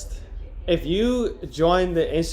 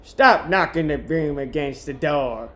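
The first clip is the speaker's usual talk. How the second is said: screamed; 3 dB louder than usual. Acted. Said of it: "she screamed".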